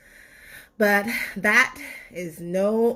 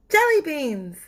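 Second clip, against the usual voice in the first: muffled voice; 7 semitones higher, 4 dB louder than usual. Acted. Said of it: "said a muffled voice".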